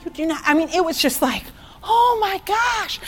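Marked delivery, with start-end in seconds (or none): 1.8-3.0 excited realization. Retold or imitated. Retelling her sudden realization.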